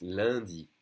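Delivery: "lundi" with UN as one nasal vowel. Shown as a demonstration. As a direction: stretch the nasal first syllable of "lundi". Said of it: "that U N is pronounced".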